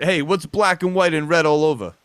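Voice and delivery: loud, high teasing riddle. Real, not acted. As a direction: poke fun at her playfully.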